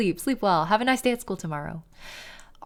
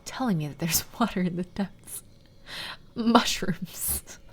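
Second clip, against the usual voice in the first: soft secretive whisper; whispered reading; 5 dB quieter, slower than usual. Acted. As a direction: whisper the diary line. Eerie diary reading.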